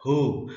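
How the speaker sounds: हु with a held oo; long vowel. Shown as a demonstration. Teacher sounds out a spelled syllable, long vowel. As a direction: draw out the vowel of हु. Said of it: "उच्चारण थोड़ा सा लंबा होता है".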